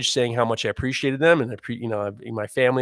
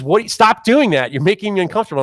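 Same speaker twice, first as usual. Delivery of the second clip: raised, sharp irritated voice; dentist's annoyed complaint; 5 semitones higher, 4 dB louder than usual. Retold or imitated. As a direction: complain loudly, a bit high. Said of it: "and then she says".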